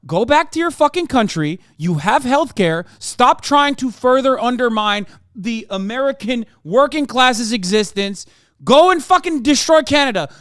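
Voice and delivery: building from sharp to shouting; angry rant. Real, not acted. Ranting at Canadians.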